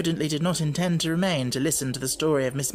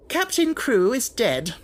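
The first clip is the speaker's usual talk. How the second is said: slow, loud and higher; curt announcement; 9 semitones higher, 4 dB louder, slower than usual. Acted. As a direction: state it bluntly. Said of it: "wasted no words".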